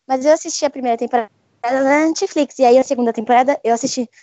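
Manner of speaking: choppy, cutting-out connection; glitching audio. Real, not acted. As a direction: voice breaking up over a bad line. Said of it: "seu áudio tá cortando e parece que tá morrendo de cansaço".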